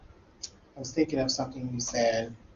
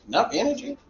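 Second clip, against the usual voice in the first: rising, higher incredulous question; mock disbelief; 6 semitones higher, faster than usual. Teacher reacting to an evaluation, mock disbelief. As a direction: feign shock at the idea.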